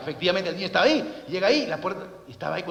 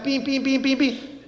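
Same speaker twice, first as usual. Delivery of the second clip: old lady's mock yell; 5 semitones higher, much slower than usual. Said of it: "la señora grita".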